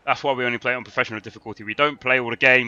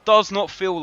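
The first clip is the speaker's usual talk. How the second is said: much higher and louder told-you-so cry; exasperated outburst; 9 semitones higher, 9 dB louder than usual. Real, not acted. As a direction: jump up in vindicated frustration. Striker fails again.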